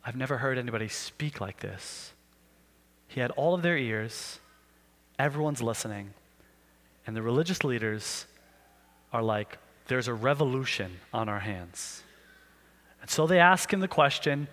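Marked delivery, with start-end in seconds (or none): 0.1-2.1 low, soft, awed murmur; a crowd spellbound, whispering in awe; hushed awe. Acted. Awed crowd hanging on words. 9.9-12.0 low, soft, anxious aside; worried leaders. Acted.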